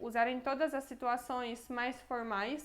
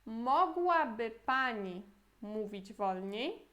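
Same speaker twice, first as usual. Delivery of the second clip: slow model phrase; slower than usual. Shown as a demonstration. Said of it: "E agora a pergunta seria".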